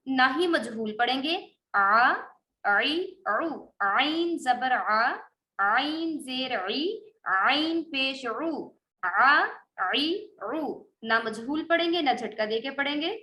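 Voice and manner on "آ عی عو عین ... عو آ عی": آ عی عو drawn out slowly, no jerk on the vowel; smooth, no jerk. Shown as a demonstration. Teacher shows pupils the reading: slow, no jerk. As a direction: glide each vowel, no break. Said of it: "جھٹکا نہیں دیں گے".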